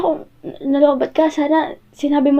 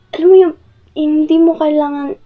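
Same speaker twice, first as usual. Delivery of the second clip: exasperated outburst; 5 dB louder than usual. Acted. Upset partner bursts out.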